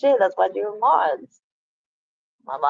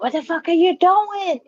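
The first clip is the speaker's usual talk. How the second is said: high, incredulous, a mock outburst; imitating her own shocked reaction, pitched up; retold outburst; 8 semitones higher than usual. To a chatter being a dick, mock shocked. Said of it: "I was like".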